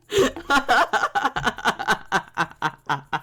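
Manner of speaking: long, high cackle; hysterical laugh. Real, not acted. Streamer losing it after cheering the dancer, hysterical laughter. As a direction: burst into uncontrollable laughter.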